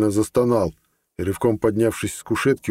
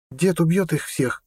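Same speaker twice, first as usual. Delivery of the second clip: put-on high, slow, proud girlish boast; a girl bragging about her grandfather; 8 semitones higher than usual. Amela tells Ned proudly, in a high, slow girl's voice. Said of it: "гордо заявила Амела".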